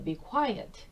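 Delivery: half-acted hush, not really stern; mock hush. Teacher repeating the hushing phrase for students. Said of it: "하는데".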